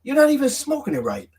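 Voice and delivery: put-on high, teasing kid voice; mocking kids. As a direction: mimic the kids sneering at him. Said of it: "And then they say".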